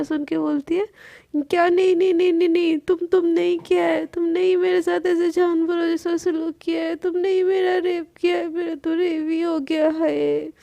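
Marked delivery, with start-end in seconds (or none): 1.4-10.5 louder, hammed-up mock weeping; "नहीं, नहीं" thrown back in a loud mock wail; fake crying. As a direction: pretend to sob while accusing. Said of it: "रोने की acting करती है".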